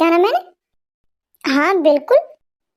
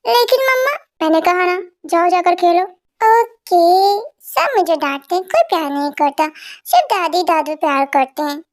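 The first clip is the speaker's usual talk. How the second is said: put-on sulky little boy; 3 semitones higher than usual. Little boy sulking after mom sends him to play. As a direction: play a scolded kid grumbling.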